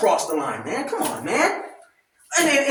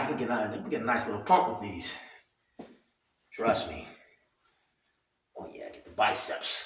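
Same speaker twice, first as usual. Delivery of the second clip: straining mid-workout; 13 semitones lower, 12 dB quieter than usual. Real, not acted. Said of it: "I don't have any dumbbells".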